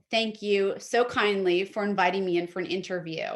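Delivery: warm, gracious sample line; gracious thank you. Shown as a demonstration. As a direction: thank them with real grace. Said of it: "something emotive".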